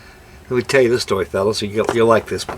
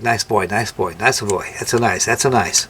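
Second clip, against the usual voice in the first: lightly imitated Italian pidgin, nice-a boy; a hint of Italian relatives' broken English; mock Italian accent; 3 semitones lower than usual. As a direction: repeat it in a mild Italian accent. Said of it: "they all speak pidgin English".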